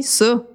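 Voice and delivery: ÇA with a dark, rounded vowel, like "saw"; ça pronounced broadly as "sô"; Quebec vowel. Shown as a demonstration. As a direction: say ça as a Québécois "sô". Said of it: "Eddie de cette manière-là".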